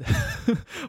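high burst of disbelieving laughter; shocked laugh. Real, not acted. Friend retelling the neighbour's remark, high shocked laugh.

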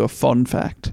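FUN said jokingly as "fon"; playful fon. Pretend. Co-host teasing with the old English word, "fun" said as "fon". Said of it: "English fon".

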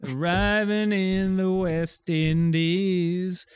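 slow dramatic narration. Pretend. Dramatic narration of the role play.

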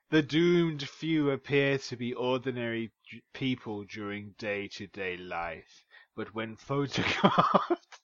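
scary voice. Acted. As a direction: intone it like a spooky story, nearly cracking at the end. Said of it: "coming down into your scary voice".

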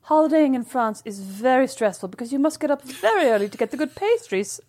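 a lightly pompous grumble; deadpan first-world moan; holidaying in France, mock-serious; mock-serious complaint. Ironic complaint about France.

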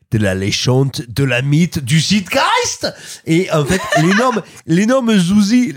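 shamefully bad German accent; hammed-up German accent in French. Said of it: "avec un accent allemand parfaitement honteux".

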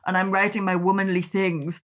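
mocking gushing woman. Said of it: "it was always about".

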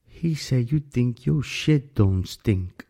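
put-on slow, drawn-out Alabama accent; a hint of Alabama accent, mocking quote. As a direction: lightly imitate an Alabama drawl, very slow. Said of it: "con este acento así un poco de Alabama".

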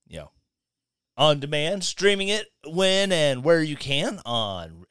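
ordinary talk

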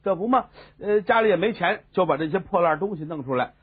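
ordinary delivery

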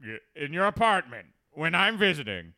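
a hint of a suspicious superintendent; skeptical Chalmers.

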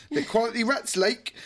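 shady character. Retold or imitated. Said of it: "proper old school sort of shady character".

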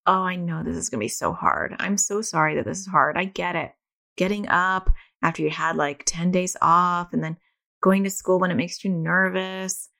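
lightly voiced gentle mom reassurance; gentle validating. Mom rubbing sleepy son's head, gently soothing. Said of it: "validated all the things he was going through instead of barking at him".

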